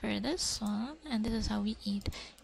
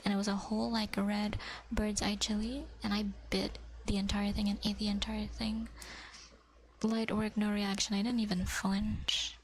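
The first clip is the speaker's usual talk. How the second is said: ASMR whisper. Acted. Whispering to viewers about fish cake. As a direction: whisper it close to the mic.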